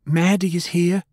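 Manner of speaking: high, urgent shout of warning. A narrator's reading. Faye warning the others as she arrives, shouting. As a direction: call it out high and sharp. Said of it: "Faye shouted".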